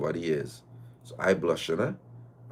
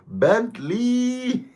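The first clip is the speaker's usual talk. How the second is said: high squeal through laughter; real helpless laugh on the word; real laughing outburst; 4 dB louder than usual. Real, not acted. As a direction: shriek the word while cracking up. Cracks up at her story.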